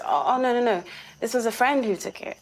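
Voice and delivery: mildly imitated hasty denial, pitch lifted; retold backtracking. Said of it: "suddenly he reverses and he says".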